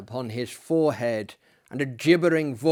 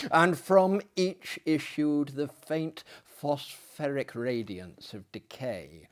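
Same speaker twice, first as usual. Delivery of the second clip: story narration. A narrator's reading. Host reading Poe's tale to viewers, in gothic narration. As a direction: read it like a spooky story by the fire. Reads Poe tale aloud.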